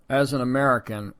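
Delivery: a faint hint of an Austrian accent; lightly put-on Austrian accent, barely there; half-hearted Austrian accent impression; Arnie accent. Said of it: "I'm not gonna do Arnie's accent anymore".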